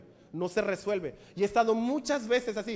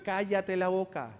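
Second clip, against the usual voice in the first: curt hush; 4 semitones lower, 4 dB quieter than usual. Retold or imitated. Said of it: "pastor answers whiner".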